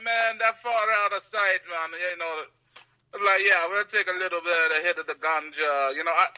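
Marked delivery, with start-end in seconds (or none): 0.0-1.9 badly faked Jamaican accent; terrible Jamaican accent. Retelling what Jamaican smoking buddies said, in bad Jamaican accent. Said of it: "making that terrible accent". 3.4-5.9 badly imitated Jamaican accent; terrible Jamaican accent. Retelling a Jamaican accepting the smoke, in bad Jamaican accent. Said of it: "making that terrible accent".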